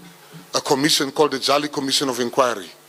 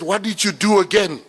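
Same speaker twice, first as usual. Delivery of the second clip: accusing mother, pitched up; a son retelling his mom scolding him, pitched up; mother's accusation; 5 semitones higher than usual. Retold or imitated. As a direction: play the suspicious mom scolding her son. Mother voiced in story.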